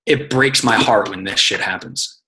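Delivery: slow, heavy heartbroken line; a touch of mock heartbreak; catch line read. Shown as a demonstration. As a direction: read it like a sad caption. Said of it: "my catch line is gonna be".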